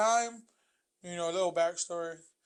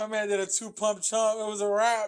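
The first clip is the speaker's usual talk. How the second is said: loud laughing shout; 3 semitones higher, 5 dB louder than usual. Real, not acted. Reacting loudly to story.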